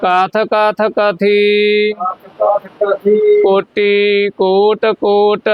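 ਕੋਟ with a single ਟ, slowly; slow, no doubled ਟ in ਕੋਟ; ਧੀਮਾ ਸ਼ੁੱਧ ਪਾਠ; slow careful recitation. Shown as a demonstration. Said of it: "ਤੱਤੇ ਨਾਲ ਹੀ ਬੋਲਣਾ".

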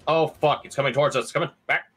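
startled panic as it approaches; alarmed. Real, not acted. Monster turns toward the players.

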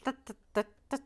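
loud, high, badly faked Boston accent. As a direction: overblown Boston accent, vowels stretched right out. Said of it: "because you can't do an accent".

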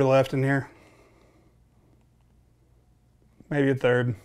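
talking around pipe stem; speaking while puffing pipe; pipe in mouth. Real, not acted. Seen 1: Pipe held at lips from 1.1s; earlier held lower.

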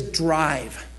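a hint of a calm guiding voice; inner voice. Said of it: "I hear this voice that says".

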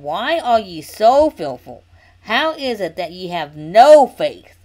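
slow, emphatic reading with loud key words; stern scripture reading; scripture rebuke. A narrator's reading. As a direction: lean hard and slowly into the reproach. Reads Jesus rebuking the disciples.

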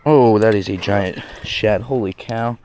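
amazed low whisper. Real, not acted. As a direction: breathe it out in awe. Whispering over a giant shad.

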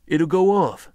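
sharp, high warning shout; loud warning. A narrator's reading. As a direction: bark it out in alarm. Tense standoff, rifle drawn.

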